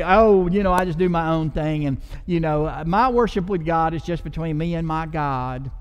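mock private worshipper.

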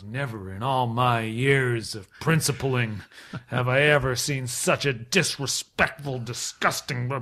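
slow, weighty reprimand; imitated principal. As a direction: drag out each word like an appalled principal. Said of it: "and then he goes".

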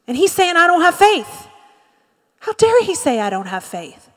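high, loud mock offence, dropping at the end; indignant victim. Preacher playing Peter offended at being rebuked, mock indignation. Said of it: "the response of a victim".

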